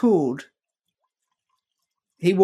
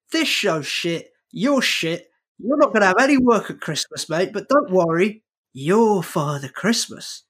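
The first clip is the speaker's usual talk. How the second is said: imitating Eamon. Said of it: "he's telling me".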